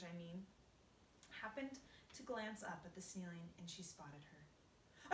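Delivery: lightly voiced fretful spider lady; Miss Spider, upset. Miss Spider tells the centipede about her grandmother, lightly voiced. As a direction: tell it like a sad family tragedy.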